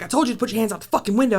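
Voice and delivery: fast, clipped mock cop yell; imitating an angry cop. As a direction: bark it like the pissed-off cop. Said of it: "he's like".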